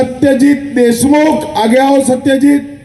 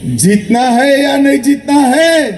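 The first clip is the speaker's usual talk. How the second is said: raised call to the crowd; rally question shout. Real, not acted. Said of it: "अरे, जोर से बोलो".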